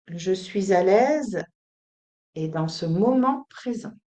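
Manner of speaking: measured delivery for others to repeat; spoken affirmation. Shown as a demonstration. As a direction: state it steadily, phrase by phrase.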